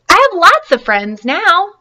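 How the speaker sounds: joyful shout, slow and high; happy loud repeat. Acted. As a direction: call it out happily across the pond. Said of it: "he said it again very loudly".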